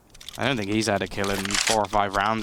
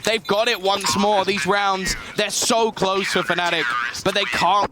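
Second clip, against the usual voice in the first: raised, energetic play-by-play; excited caster; 8 semitones higher than usual. Real, not acted. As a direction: pick up the pace of the call. Rising play-by-play.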